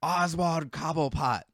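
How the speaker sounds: dramatic, slowly proclaimed name; Penguin. Retold or imitated. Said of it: "Dramatic pause".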